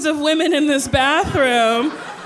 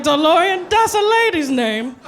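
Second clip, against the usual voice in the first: put-on drunk realization; 4 semitones higher than usual. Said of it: "I was like".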